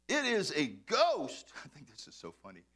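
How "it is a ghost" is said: drawn out, slow ghostly dread; a slow, hammed-up spooked line; slow spooked whisper-like dread. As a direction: stretch it out slowly like a spooked sailor. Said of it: "they were troubled, saying".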